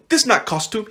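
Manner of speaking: lightly voiced Russian accent, dropping the article; a playful Russian vampire accent. Quoting the actor playing Vlad, in a Russian accent. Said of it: "let me get my Russian voice".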